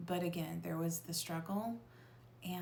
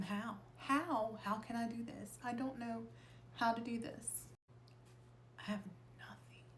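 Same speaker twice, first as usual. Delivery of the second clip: desperate plea; 5 semitones higher than usual. Retold or imitated. Retold desperate plea to spirits.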